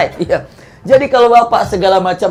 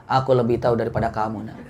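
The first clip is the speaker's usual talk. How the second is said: laughing parent; 6 semitones lower, 6 dB quieter than usual. Acted. Parent answering a child.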